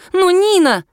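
high, loud protest; pleading cry. A narrator's reading. The friend pleads with her boyfriend to let her go to Nina, crying out.

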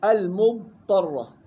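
slow المضطرة, dad held before ta; elongated dad. Shown as a demonstration. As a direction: keep the dad of المضطرة distinct, no bounce or merging. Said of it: "يلاحظ الاستطالة في الضاد". (المضطرة باستطالة الضاد)

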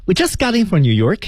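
pitched high, self-assured showing off. Shown as a demonstration. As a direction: present yourself from up high. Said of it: "音调普遍的往上抬了一点". (高音高调展示自己)

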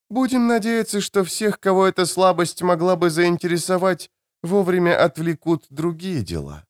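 high, cool queen's voice; queen of dreams. Acted. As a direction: speak as a calm otherworldly queen.

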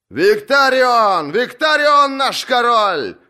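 slow shouted acclaim, high and loud; crowd shout. Acted. Supporters hail Victarion as king, loud slow shouts. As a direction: hail your king at full voice. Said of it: "закричали его заступники".

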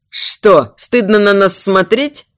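mildly angry jeer; understated furious challenge; raging taunt. Acted. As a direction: taunt her with contained rage. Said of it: "ярился Америс".

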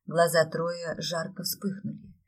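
ordinary delivery, nothing marked

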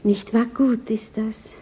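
whispered, slow, eyes on the painting; hushed gallery whisper. Acted. Woman whispering to an old friend before a painting, hushed. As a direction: keep it to a museum whisper.

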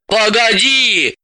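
slow, taken-aback call. Acted. Elizaveta stops her leaving friend, taken aback. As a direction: stop her, caught off guard. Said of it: "опешила Елизавета".

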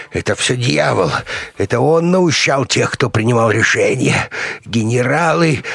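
high, halting anxious confession; cowed crazed doctor. A narrator's reading. Beaten doctor confessing to the colonel, agitated. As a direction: plead innocence in a high voice.

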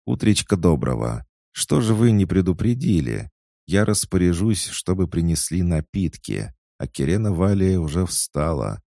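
put-on high, loud, eager young maid; chatty excited maid. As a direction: gush it out breathlessly eager. (восторженная болтливая служанка)

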